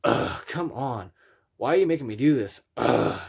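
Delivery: whiny annoyed groan; exasperated groan. Shown as a demonstration. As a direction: drag it out, fed up.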